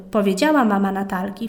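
usual speaking voice

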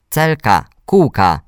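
put-on high, loud child calling for attention; insistent little brother. A narrator's reading. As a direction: pester a sister with a repeated call. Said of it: "powtarzał Mikołaj".

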